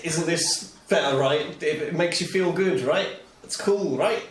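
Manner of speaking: coaxing and cheerful, rising on each right; bright coaxing reassurance; smiling encouragement. Acted. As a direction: gently cheer up a wounded friend. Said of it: "smile and look at Bork like".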